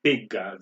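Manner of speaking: Pigga said PIG-ga, two syllables; Old English Pigga, PIG-ga; Old English word. Shown as a demonstration. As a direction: say Pigga, stress on the first. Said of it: "the old English for pig is pigga".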